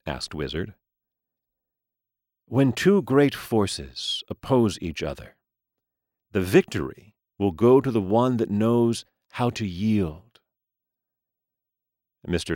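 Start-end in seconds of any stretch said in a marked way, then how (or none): 2.5-10.4 sage gentleman voice. Acted. Mister Lee's wisdom.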